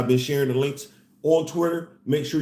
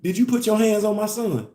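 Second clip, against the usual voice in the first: calm protective mom; 5 semitones higher than usual. Retold or imitated. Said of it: "she coming in with that energy".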